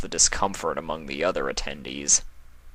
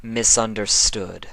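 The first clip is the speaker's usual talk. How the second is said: sharp interruption; 4 semitones higher, 4 dB louder than usual. Acted. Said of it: "the Alicorn interrupted".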